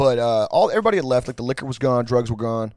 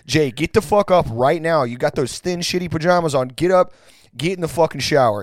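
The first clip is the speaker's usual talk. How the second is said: mock yelling at roommate; 3 semitones higher than usual. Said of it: "all of us are like".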